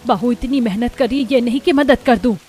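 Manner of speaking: put-on mother telling off her idle child; acted motherly rebuke; scolding.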